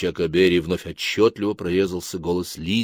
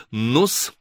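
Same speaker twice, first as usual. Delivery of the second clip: cool, softer questioning; faint disgust; 4 dB quieter than usual. Acted. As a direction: ask with a touch of squeamishness. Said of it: "с оттенком брезгливости вопросил". (с оттенком брезгливости)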